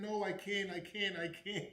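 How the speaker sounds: high, giggly starstruck no; nervous laughing refusal. Retold or imitated. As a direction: laugh it off, too shy to go. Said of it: "I said".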